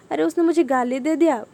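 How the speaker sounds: a mock indignant thought in Hindi; dwelling on it, aggrieved. Shown as a demonstration. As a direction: voice the grudge getting worked up. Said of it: "पर ऐसा नहीं करना है कि".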